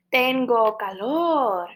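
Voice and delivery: hushed unvoiced whisper. Shown as a demonstration. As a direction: breathe it out in a whisper. Teacher shows hot.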